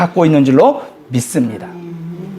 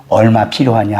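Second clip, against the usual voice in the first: God's voice; 9 semitones lower than usual. Retold or imitated. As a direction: speak as God, calm and sure. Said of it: "그 음성이 정말 부드럽고 그 음성이 너무 확신에 찬".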